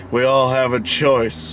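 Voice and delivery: Bond villain voice. Retold or imitated. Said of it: "like a James Bond villain".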